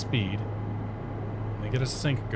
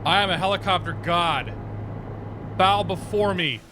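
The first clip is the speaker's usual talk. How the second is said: dark lord; 5 semitones higher than usual. Pretend. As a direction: proclaim it like a mighty deity. Boasting after a helicopter win.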